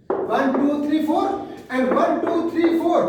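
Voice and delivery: counting off beats evenly; teacher counting out the stressed beats. Shown as a demonstration. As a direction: tick the count like a metronome. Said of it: "These are the stressed syllables".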